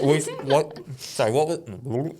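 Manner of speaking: talking with a mouthful; words round a bite of food; mouth full. Real, not acted. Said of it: "don't talk with your mouth full, Phil".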